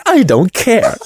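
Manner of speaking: high dismissive Homer impression. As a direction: toss it off in Homer's voice. Homer quoted in retold scene.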